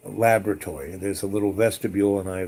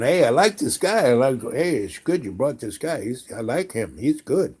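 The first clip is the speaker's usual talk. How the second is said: happy animals; 2 semitones higher than usual. Retold or imitated. Farm animals voiced as happy.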